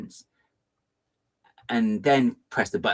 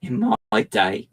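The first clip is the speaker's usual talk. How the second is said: pearl-clutching; 2 semitones higher, much slower than usual. Acted. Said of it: "clutches pearls".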